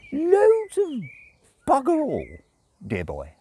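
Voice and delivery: high, fussy tipsy angel objecting; prim angel voice, a bit drunk; fussy angel protesting; Aziraphale voice. A narrator's reading. Aziraphale voice continues.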